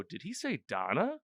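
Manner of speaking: lightly acted disbelief with swinging pitch; mock puzzlement. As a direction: imitate a baffled double-take. Voicing the puzzled Titans' reaction.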